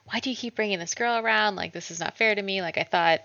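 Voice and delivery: imitated hurried griping; quick, lightly acted protest, pitch lifted; retold complaint. Elizabeth complaining about the girl being brought around, retold complaint. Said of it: "she's all like".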